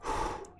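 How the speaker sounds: long audible breath out; deep exhale. Shown as a demonstration. Showing viewers the breathing exercise, deep exhale. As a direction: breathe out fully as a demonstration. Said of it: "take a deep exhale out".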